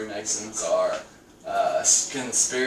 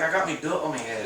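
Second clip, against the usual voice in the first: put-on British accent; 3 semitones higher than usual. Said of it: "And he was British".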